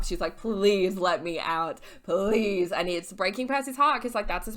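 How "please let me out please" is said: drawn-out mock begging wail; Annabeth. Tied-up friend begging to be released, hammed-up pleading. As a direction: plead slowly, stretching each please. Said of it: "Annabeth is screaming, crying, throwing up".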